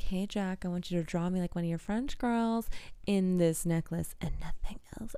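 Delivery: soft, seductive murmur dropping to a whisper; sultry hush. Retold or imitated. Rose asking Jack to draw her, hushed and seductive. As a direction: coax him quietly, trailing into breath.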